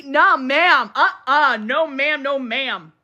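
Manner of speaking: repeated no ma'am, dying away; firm refusal. Real, not acted. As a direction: shut it down firmly. Emphatic refusal.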